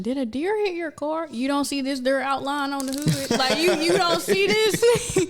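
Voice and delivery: retold incredulous question. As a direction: answer an obvious question in mock disbelief. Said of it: "everybody asked a rhetorical question".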